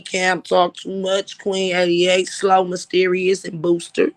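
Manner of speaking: usual speaking voice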